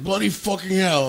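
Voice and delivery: a hammed-up British swear when he's mad; mock angry boss. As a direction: boss snapping at him after a mistake, mock angry. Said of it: "'cause I'd do something wrong, he'd be like".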